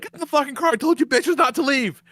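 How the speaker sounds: high-pitched, exasperated mock order; mock scolding. Heroine to the girls after the crash, mock scolding.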